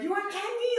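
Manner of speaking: high sing-song offer, laughing; lightly voiced helpful ladies; mock sweet offer. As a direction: coax like kind strangers. Women offering candy retold.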